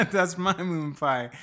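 slow line through a laugh; a touch of old-timey kid, laughing. Acted.

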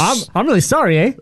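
apologetic mock Canadian; Canadian accent. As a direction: say sorry like a stage Canadian. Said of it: "one accent, it is the Canadian".

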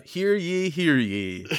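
loud town crier call. Shown as a demonstration. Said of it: "it would probably sound like this".

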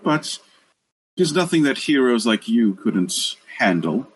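a kindly deity thanking the heroes; warm serene goddess voice. Acted. GM plays NPC for many lines.

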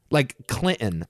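"Clinton" with the middle T swallowed; dropped T. Shown as a demonstration. Friend showing dropped T sounds, swallowed T in Clinton. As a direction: say "Clinton" with a glottal stop for t. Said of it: "not pronounce the T sounds".

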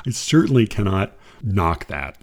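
ordinary talk

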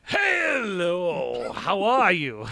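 drawn-out Texan hello; Texas rich accent. Acted. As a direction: greet in a lazy, long Texan drawl. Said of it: "So I've got a Texas Rich accent".

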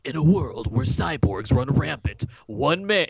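slow, dramatic trailer narrator; movie trailer voice. Retold or imitated. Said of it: "you have trailer voice".

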